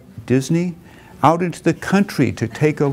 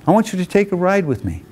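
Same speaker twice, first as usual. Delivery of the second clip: a lively, higher, excited buddy urging him along; eager friend; 6 semitones higher than usual. Retold or imitated. Walter urging his friend Arthur to come along, eager. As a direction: sell the surprise with bright eagerness.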